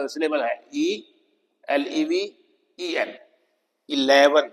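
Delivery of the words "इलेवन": इलेवन with the weight on LE; middle-syllable stress. Shown as a demonstration. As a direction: model इलेवन, short light "i", stressed LE. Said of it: "तो stress यहां है". (इलेवन में ज़ोर "ले" पर)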